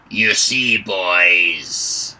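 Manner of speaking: put-on loud, sneering hobgoblin with a thick accent; mock the travellers in a thick foreign accent. Hobgoblin leader sneers at the captured travellers, thick accent. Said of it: "speaking the common tongue with a thick accent".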